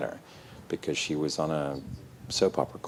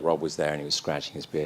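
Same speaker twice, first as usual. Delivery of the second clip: usual speaking voice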